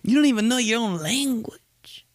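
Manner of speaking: high, whispery mock disbelief; incredulous people. Everybody asking the least Italian guy, incredulous mock voice. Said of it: "Everybody's like".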